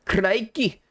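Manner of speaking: lightly voiced cheeky sidekick exclaiming; a cheery fairy companion's outburst; a hint of a sing-song sidekick voice; Drippy voice. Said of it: "do the fucking drippy voice".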